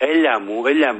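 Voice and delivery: mock Athenian caller, "έλα" turned into "έλια"; προφορά με ελαφρύ λάμδα. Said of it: "μιλάει με το". (μίμηση νότιας προφοράς με μαλακό λάμδα)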